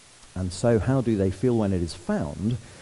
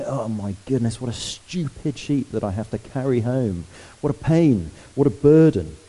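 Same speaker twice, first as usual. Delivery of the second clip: complaining, building louder to what a burden; mock grumbling; 2 semitones higher, 3 dB louder than usual. Preacher voicing a shepherd who resents the sheep, mock grumble. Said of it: "He doesn't go home grumbling".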